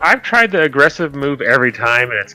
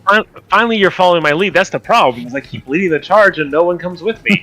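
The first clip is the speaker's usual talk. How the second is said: triumphant; 5 semitones higher than usual. Acted. Player gloating, raised voice.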